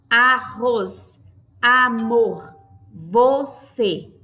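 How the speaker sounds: teacher separating the syllables; word split into syllables. Shown as a demonstration. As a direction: sound out each syllable for a class. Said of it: "duas aberturas de boca para a pronúncia".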